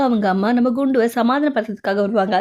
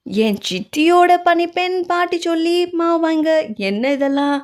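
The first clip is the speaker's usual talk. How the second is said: baffled question; 7 semitones higher, slower than usual. Acted. Confused question in family quarrel.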